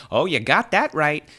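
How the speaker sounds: high, mad outburst; screaming. Acted. Thief answering the wise elder, screaming. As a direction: shriek it back in agreement. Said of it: "screamed the".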